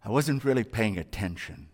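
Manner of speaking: low, sheepish admission; clueless trainee. Retold or imitated. Trainee confessing to the trainer, low and sheepish. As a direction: own up that you weren't listening. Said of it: "And you're going".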